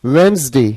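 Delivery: "वेडनेसडे" as WENZ-day, first D silent; pronunciation demo. Shown as a demonstration. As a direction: say "वेडनेसडे" clearly in two syllables, WENZ-day. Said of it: "इसकी जो pronunciation है वो क्या है".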